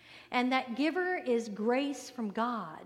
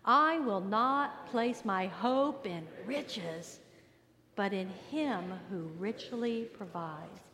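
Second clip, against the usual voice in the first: with attitude; much slower than usual. Shown as a demonstration. Pastor leads congregation reading it with attitude. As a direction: spell out each word with sass. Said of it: "say it again with attitude?".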